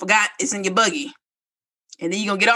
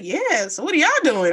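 higher, eager mock small talk; excited stranger; 5 semitones higher than usual. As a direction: imitate an excited man chatting up strangers. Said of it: "He's all excited".

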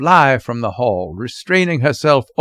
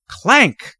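high, sudden spoken clang; sharp spoken sound effect; imitated clank; 10 semitones higher, 3 dB louder than usual. A narrator's reading. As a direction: voice a basin hitting the floor. Basin lands below.

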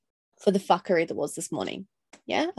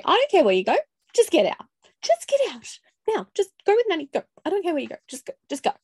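retold yell at kids; 10 semitones higher, faster than usual. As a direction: shove the kids out the door with your voice. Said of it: "But I did say".

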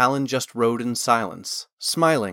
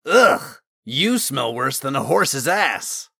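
disgusted; 2 semitones higher, 4 dB louder, slower than usual. A narrator's reading. Osmond hit by a smelly sleeve, disgusted. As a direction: recoil in loud disgust, dragging out the insult.

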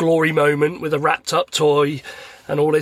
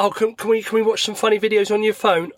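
higher-pitched pleading kid, lightly voiced; imitated son; 5 semitones higher than usual. Son asks dad for funny videos, lightly voiced pleading. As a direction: lightly imitate a child asking. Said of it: "then he'd be like".

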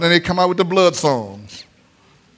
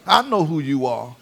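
low, soft demon voice; demon's voice; 4 semitones lower, 5 dB quieter than usual. Acted. Demon speaking to Jesus.

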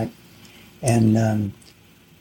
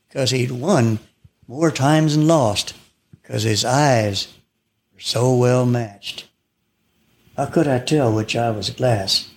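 cowboy poetry. Shown as a demonstration. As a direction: recite it like a campfire poem. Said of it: "I would recite a cowboy poem".

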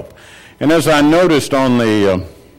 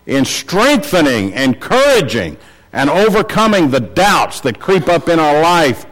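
raised pitch, insistent sermon delivery; emphatic preaching; 5 semitones higher than usual. Real, not acted. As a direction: press each point home to the congregation. Preacher urges congregation to attend.

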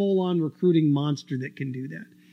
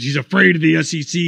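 quoted claim with a rising, louder push on "afraid"; quoting critics; 2 semitones lower, 4 dB louder than usual. Retold or imitated. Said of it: "People say".

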